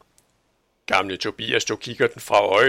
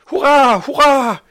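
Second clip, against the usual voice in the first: shouting hurray; 12 dB louder than usual. Acted. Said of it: "råbte Camomilla".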